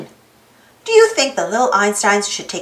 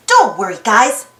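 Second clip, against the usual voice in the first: brave; 3 dB louder than usual. Acted. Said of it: "Quincy said bravely".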